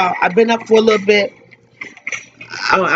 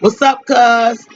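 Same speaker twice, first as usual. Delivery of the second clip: imitating W's voice; 3 semitones higher, slower than usual. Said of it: "That voice".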